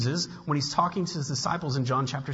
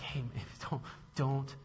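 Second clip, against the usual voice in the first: softer, gentle reassurance; pastoral comfort; 3 semitones lower, 7 dB quieter than usual. Retold or imitated. Pastor telling his flock not to panic, soft and gentle. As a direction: soothe them like a shepherd. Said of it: "this pastoral heart".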